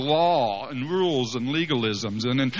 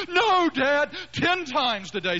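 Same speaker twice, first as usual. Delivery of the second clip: put-on child protest; 12 semitones higher, slower than usual. Son protesting.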